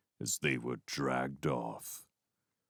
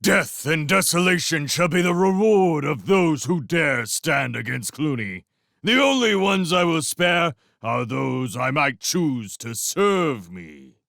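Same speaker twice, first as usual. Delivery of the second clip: mad warlord decree; 7 semitones higher, 4 dB louder than usual. Acted. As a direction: declare doom like a madman. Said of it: "the light of madness in his eye".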